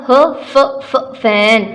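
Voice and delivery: फ said as a short f sound, then फैन; teacher modelling फ, फैन; phonics sound demo. Shown as a demonstration. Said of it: "किसकी sound से मिलेगा?".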